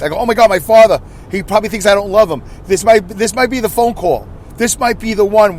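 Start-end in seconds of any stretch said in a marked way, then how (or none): 0.2-2.4 mock panic. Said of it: "But yeah, I panicked".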